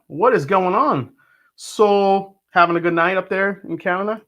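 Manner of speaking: hammed-up Canadian accent with swooping pitch; terrible Canadian accent. Streamer greeting a viewer tuning in from Canada, mock Canadian accent. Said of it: "That was my terrible, uh, Canadian accent".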